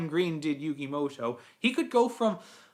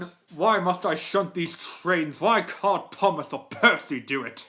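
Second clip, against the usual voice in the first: lightly voiced put-upon engine; Gordon. Engine resenting shunting duty, in Gordon's voice. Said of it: "What about Gordon?".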